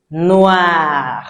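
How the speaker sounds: "Noir" said NWAR, with the wa sound; French noir. Shown as a demonstration. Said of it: "Because O I sounds what?".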